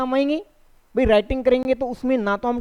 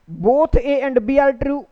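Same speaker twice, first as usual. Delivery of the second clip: slow reading; 3 semitones higher, much slower than usual. Shown as a demonstration. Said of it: "teacher reads option slowly".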